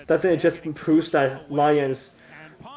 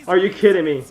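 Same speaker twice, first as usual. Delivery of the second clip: loud, high, disbelieving yell at Eddie; excited shout; 5 semitones higher, 6 dB louder than usual. Real, not acted. Streamer shouting at Eddie's outplay, loud and high. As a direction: shout it like you can't believe what you just saw. Streamer reacting to a big play.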